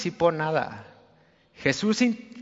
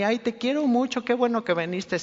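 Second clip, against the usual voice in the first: Barney-style gushing; 5 semitones higher than usual. Retold or imitated. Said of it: "dando abrazos de Barney".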